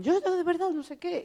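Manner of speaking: high, loud, excited stammer; mock starstruck squeal; flustered excitement. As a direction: gush like a starstruck girl. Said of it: "y ella en plan".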